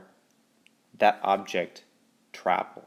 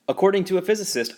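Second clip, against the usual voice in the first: excited; 10 semitones higher, 5 dB louder, faster than usual. Shown as a demonstration. Dramatic build-up to the definition.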